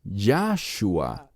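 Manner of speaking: "Yahshua" slowly, with Yah stressed. Shown as a demonstration. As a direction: lean on the first syllable of "Yahshua". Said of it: "enfatizan la sílaba Yah".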